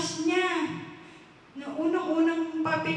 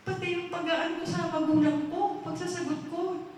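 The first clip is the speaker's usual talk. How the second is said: raised-pitch astonishment; acted amazement; 5 semitones higher than usual. Man finding his misdeeds on record, amazed. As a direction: marvel that even this is here. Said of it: "Sabi niya, namamangha siya".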